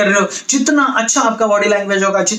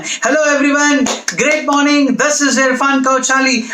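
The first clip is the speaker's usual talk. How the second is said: slow, higher, grand hello to an audience; stage opening; 4 semitones higher, much slower than usual. Shown as a demonstration. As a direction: open the show with a bang. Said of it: "grab their attention with a bang". (मंच पर जोशीला, धीमा अभिवादन)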